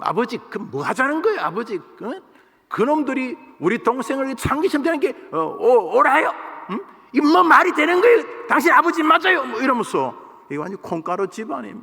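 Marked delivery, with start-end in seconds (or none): 0.0-9.4 loud, swooping, rude, insolent back-talk tone. Speaker reads a bible verse as a son talking back to his father: insolent son talking back. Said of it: "버릇없는 자식이 아버지에게 대드는 말투로".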